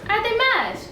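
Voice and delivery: shocked disbelief. Acted. Wife hearing the old woman is pregnant, aghast. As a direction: leap up in pitch, aghast.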